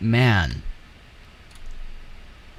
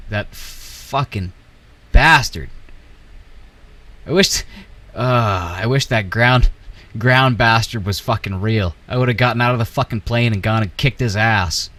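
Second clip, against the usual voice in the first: angry rant. Real, not acted. Ranting at game ground vehicle.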